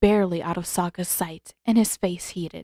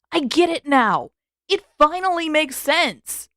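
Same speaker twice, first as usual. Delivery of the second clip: sudden excited realisation, higher and louder; 8 semitones higher, 5 dB louder than usual. A narrator's reading. Sokka to his friends, finally understanding, excited outburst. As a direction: blurt it out as it all clicks.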